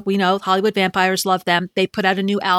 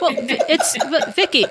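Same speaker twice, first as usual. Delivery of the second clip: uptalk; 7 semitones higher, slower than usual. Shown as a demonstration. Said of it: "Vicky, it's time to podcast".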